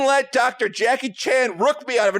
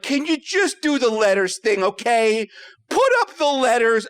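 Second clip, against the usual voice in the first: exasperated. Retold or imitated. Retold fed-up plea to the doctor.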